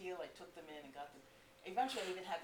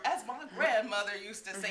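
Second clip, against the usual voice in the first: loud, high, goofy lilt; mock-Southern sounding highs and lows; Eugene; 4 semitones higher, 11 dB louder than usual. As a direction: punch it high and slide down playfully. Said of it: "would be really high and down low".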